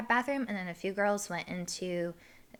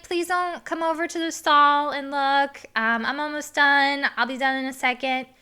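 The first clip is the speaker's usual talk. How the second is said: raised pitch, loud and urgent; acted urgent plea; 7 semitones higher, 7 dB louder than usual. Woman asking a guy not to look, urgent plea. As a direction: re-enact pleading from inside the stall, easing slightly. Pleading with man from stall.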